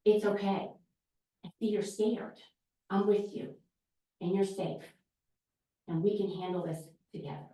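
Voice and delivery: put-on soft, calm reassurance to a frightened child; soothing a scared child. Shown as a demonstration. Teacher calming a frightened child, soft and reassuring. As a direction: gently settle a scared little one.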